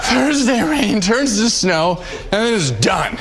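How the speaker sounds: laughing. Real, not acted. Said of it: "I can't, I'm".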